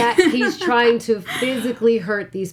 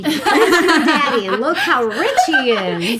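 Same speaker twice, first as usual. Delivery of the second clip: laughing mock mom; slower than usual. Joking as the mom.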